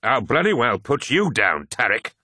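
loud, high mock threat; blustering retort. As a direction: throw the teasing back forcefully. Mock threat answering a jibe.

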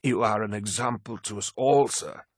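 proud. A narrator's reading. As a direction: praise your lord with pride. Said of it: "said Malakhurst proudly".

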